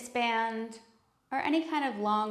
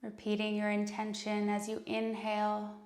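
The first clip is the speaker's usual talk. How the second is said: calm, unhurried meditation voice with long pauses; guided meditation. Acted. Yoga teacher leading students into breath and intention, calm guided meditation.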